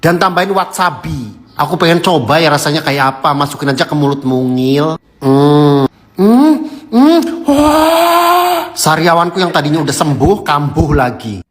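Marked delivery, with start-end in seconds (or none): 5.2-8.7 savoring. Real, not acted. Tasting salmon with wasabi.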